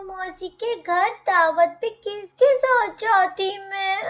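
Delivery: crying while scolding him, voice climbing; tearful lament. Acted. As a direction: wail over what might have happened. Wife wailing over beaten husband.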